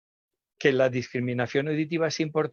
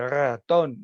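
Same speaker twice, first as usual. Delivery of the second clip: put-on child says the word a bit louder; louder child answer; 4 dB louder than usual. Shown as a demonstration. Child prompted to speak up, louder reply. Dilo más fuerte.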